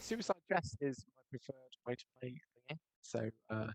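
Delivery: audio cutting in and out; glitchy, dropping connection; tape dropouts. Real, not acted. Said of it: "your audio keeps cutting out".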